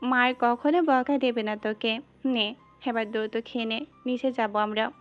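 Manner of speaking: put-on doting baby-talk reassurance; soothing mother. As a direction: coax a sulking little one tenderly. Mother soothes sulking pet, acted.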